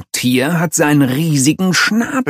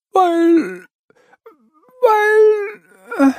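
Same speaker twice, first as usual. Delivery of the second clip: hesitant stammer; much slower than usual. A narrator's reading. Ostrich hesitates.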